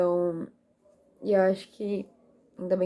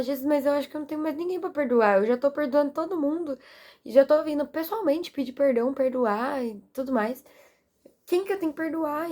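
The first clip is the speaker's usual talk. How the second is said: puzzled protest; 5 semitones higher than usual. Retold or imitated. Retold puzzled question to Jesus.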